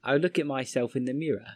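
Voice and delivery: demonstrated British accent with "mee-rah" for mirror; British accent, carefully modelled. Shown as a demonstration. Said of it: "have a British accent".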